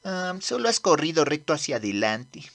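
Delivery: whispered put-down; dry whisper. Acted. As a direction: deflate his bragging under your breath. Deflating Tief's boast.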